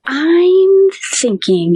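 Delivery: breathy high whisper, drawn out slowly; hushed doctor. Retold or imitated. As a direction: voice the doctor barely above a whisper as he starts. Doctor breaks grim news.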